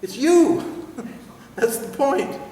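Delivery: high, loud giggling through the words; real giggles, mock scolding; laughing fit. Real, not acted. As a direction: crack up and tease through laughter. Laughing fit over seeking yourself.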